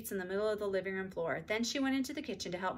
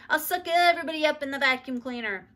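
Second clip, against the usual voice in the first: higher, louder playful threat; shouting; 7 semitones higher, 8 dB louder than usual. A narrator's reading. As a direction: yell it across the room. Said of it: "he shouted".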